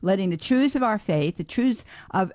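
ordinary talk, nothing marked

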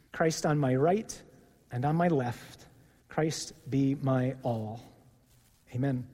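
measured prayer in short, paused phrases; led prayer. Real, not acted. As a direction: lead a group through a prayer, phrase by phrase. Leads the group in prayer.

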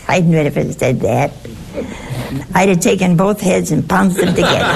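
fast, laughing confession. Real, not acted. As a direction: giggle through the admission, quickly. Admits impatience, laughing.

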